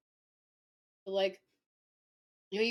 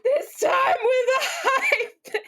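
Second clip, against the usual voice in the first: high, loud, drawn-out shriek of laughter; hysterical laughing shout; 12 semitones higher, 8 dB louder, slower than usual. Real, not acted. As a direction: repeat it incredulously, completely losing it. Repeats the line, cracking up.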